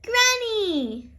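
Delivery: high, eager call to Granny; little girl excitedly calling Granny. Acted. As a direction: call out to Granny, bursting to tell. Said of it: "says Peppa excitedly".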